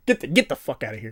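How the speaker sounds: fast laughing yell to shoo it; half-laughing scared shout; screaming at a spider. Real, not acted. Spider nearby.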